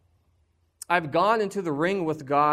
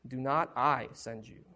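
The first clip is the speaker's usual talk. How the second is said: soft emphasis; 5 semitones lower, 7 dB quieter than usual. Shown as a demonstration. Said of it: "His presence".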